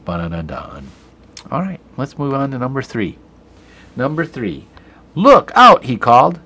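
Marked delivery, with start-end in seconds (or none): 5.1-5.8 loud, high warning shout; a teacher acting out a shouted warning. Shown as a demonstration. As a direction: call it out as a warning. Teacher reads dialogue aloud.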